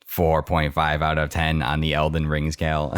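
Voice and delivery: flat computer assistant voice; deadpan like a voice assistant; robot voice. Pretend. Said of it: "Thanks, Siri".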